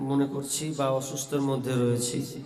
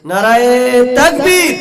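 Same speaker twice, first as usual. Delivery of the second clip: high, full-force rallying cry; slogan shout; 7 semitones higher, 15 dB louder than usual. Real, not acted. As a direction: shout to make the crowd answer. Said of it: "নারায়ে তাকবীর যখন আল্লাহ slogan দিতে বলছি".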